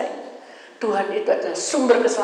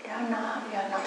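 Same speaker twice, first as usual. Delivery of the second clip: soft, soothing mother's reply; loving mother; 9 dB quieter than usual. Retold or imitated. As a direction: gently comfort a hurt child, voice lowered. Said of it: "kasih sayang seorang mama saya". (suara mama lembut penuh kasih)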